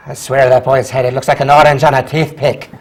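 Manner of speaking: put-on lightly grumbled aside in Shrek's accent; Mike Myers dad accent. Teacher recreates a movie dad mocking his kid, put-on accent. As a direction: complain about the kid in a dad's Shrek-like accent. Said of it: "in that accent".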